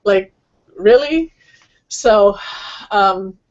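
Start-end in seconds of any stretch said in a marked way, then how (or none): 0.0-1.3 teasing disbelief, rising at the end; gently mock them for wanting it easy; affectionate sarcasm, lightly put on; lovingly sarcastic. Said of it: "lovingly, but kind of sarcastic".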